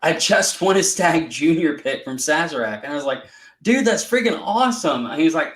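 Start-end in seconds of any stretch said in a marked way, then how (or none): 0.0-2.8 retold excitement. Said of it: "he gets all excited and says". 3.6-5.1 higher-pitched, lightly impressed quote; retold excitement. Retelling own thrilled reaction.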